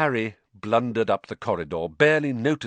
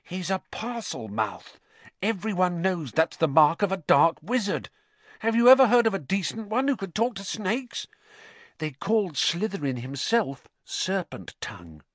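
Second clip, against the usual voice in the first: solemn; 10 semitones higher than usual. A narrator's reading. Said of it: "said the stout boy solemnly".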